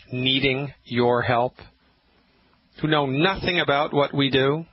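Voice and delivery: rousing sales pitch; ad read. Acted. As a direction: sell it like a rally. Sponsor pitch over music.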